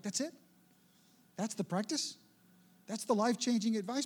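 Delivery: sceptical questions with rising ends; mock incredulous. Preacher voicing unimpressed congregation hearing the advice, mock doubtful. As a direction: act the underwhelmed listener questioning it.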